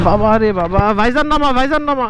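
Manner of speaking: on a bumpy road. Real, not acted. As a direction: voice jolted by bumps. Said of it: "আমার ভয়েসের দিকে একটু লক্ষ্য রাখলেই বুঝতে পারবেন".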